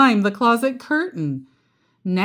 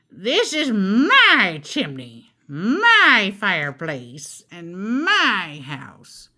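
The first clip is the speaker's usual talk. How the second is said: croaking witch; slower than usual. Acted. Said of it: "she croaked".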